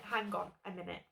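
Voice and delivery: muttered to herself. Real, not acted. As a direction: settle back down. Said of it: "Hang, hang on a minute".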